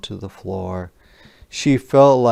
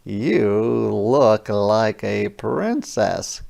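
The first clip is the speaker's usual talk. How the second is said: gasped compliment; much slower than usual. Acted. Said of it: "gasped Regan".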